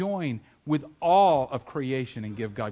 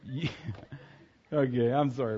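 ordinary talk, nothing marked

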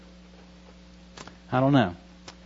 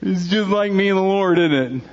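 real tears, voice cracking much higher and louder; tearing up; 4 dB louder than usual. Real, not acted. Father recalling dropping his son at college, tearfully cracking. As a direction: let the emotion break through the words. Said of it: "I'm tearing up".

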